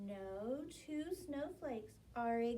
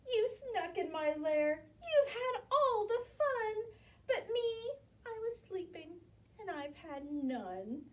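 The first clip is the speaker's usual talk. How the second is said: high, whiny, near tears; whimpering bear; 6 semitones higher than usual. Acted. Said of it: "he whimpers and he moans".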